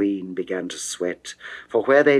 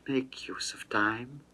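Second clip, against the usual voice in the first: breathy secret whisper; 2 semitones higher, 11 dB quieter than usual. Acted. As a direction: lean in and whisper it. Seductive whispered aside to Adonis.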